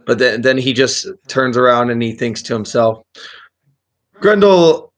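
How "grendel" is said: put-on high, slow, doddering old man; old wizard voice. Wizard muses aloud.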